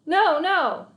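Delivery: high, loud nervous laughing no; forced chuckle of denial. Acted. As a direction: laugh it off awkwardly. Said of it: "forcing a laugh".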